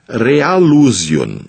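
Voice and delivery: "Realusion" spelt out very slowly, syllable by syllable; slow dictation. Shown as a demonstration. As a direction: drag out "Realusion" so they can write it down. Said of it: "aí você escreve".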